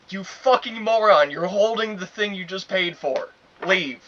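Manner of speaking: very loud, high re-enacted outburst; retold cussing out. Fed-up worker throwing out a customer, angry cussing retold. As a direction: let rip at the customer, drawing out the insult. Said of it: "I was literally just cussing him out".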